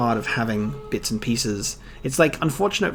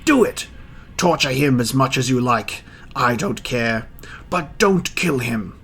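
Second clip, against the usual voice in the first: flail between rage and fear; panicked mayor; 4 semitones higher than usual. Acted. Mayor orders torture and his carriage, high and frantic.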